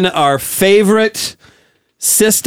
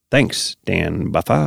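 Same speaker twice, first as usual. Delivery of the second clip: very low, quiet, slow Giamatti; Giamatti impression; 12 semitones lower, 7 dB quieter, much slower than usual. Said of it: "The Corolla drop".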